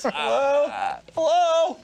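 very high-pitched calling hello; exaggerated high call to an absent helper; mock calling out. Imitating someone calling out for help.

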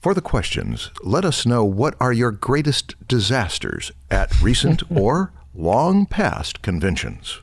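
announcer voice. Acted. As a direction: wrap up the show like a TV announcer. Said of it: "I could do the announcer voice thing".

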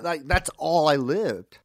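slow, emotional confession; touched. Real, not acted. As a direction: let the feeling slow you down. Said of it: "I'm crying right now".

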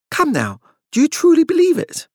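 high, strained forced lightness; tense laugh-edged. Acted. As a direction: cover fear with a brittle laugh. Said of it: "ragged edge of tension".

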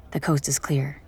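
whispered aside; hushed narrator whisper. A narrator's reading. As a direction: breathe it out barely voiced. Sneaking, checking the hall.

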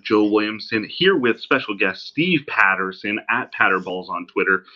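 distant laptop mic sound; like it's recorded from the next room; from another room. Real, not acted. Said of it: "me sounding like I'm talking from the other room".

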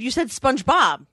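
SPONGEBOB echoed with an open "spahnj"; imitating mispronunciation. Woman quoting sister-in-law's error back, Spahnj-Bob. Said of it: "I said".

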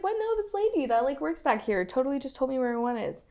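high, puzzled mom voice; high surprised voice. Retold or imitated. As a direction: sound baffled and high. Woman voiced in a story.

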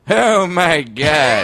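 Norm Macdonald impression. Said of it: "me doing Jay Moore".

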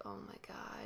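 whispering under the breath; breathy whisper of disbelief. Retold or imitated. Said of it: "I was just like".

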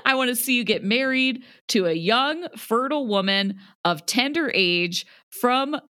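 a hint of a doting mother selling brides; mock mom. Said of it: "great performance".

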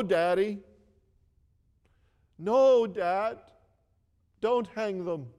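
a hint of an eleven-year-old begging; little boy pleading. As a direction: plead with your father like a small son. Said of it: "this little boy said".

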